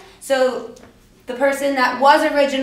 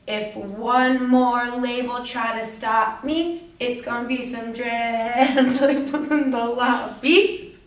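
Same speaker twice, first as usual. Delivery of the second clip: slow words breaking into a laugh; laughing through it; slower than usual. Real, not acted. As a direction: giggle while saying it slowly.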